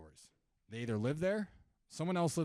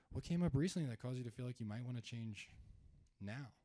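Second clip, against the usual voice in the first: softer, gently concerned question; 4 dB quieter than usual. Shown as a demonstration. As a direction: sound concerned and caring as you ask. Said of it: "I wanna sound concerned".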